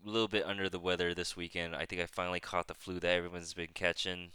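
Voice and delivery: stuffy, nasal flu voice. Real, not acted. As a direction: talk through a blocked nose. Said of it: "if my voice sounds extra nasally".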